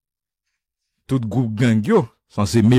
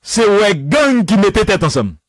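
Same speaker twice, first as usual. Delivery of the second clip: much higher, mocking the gang leader's speech; quoting Barbecue in a raised mock orator voice; Jimmy Cherizier voice; 9 semitones higher, 3 dB louder than usual. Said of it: "Jimmy Cherizier, barbecue".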